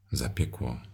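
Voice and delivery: usual speaking voice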